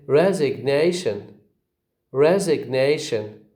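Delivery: "resignation" with main stress on NA, lighter on RES; bigger second stress. Shown as a demonstration. Teacher answers which is bigger, "resignation" with primary stress on NA. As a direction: lean hardest on NA in "resignation". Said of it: "The second one is bigger".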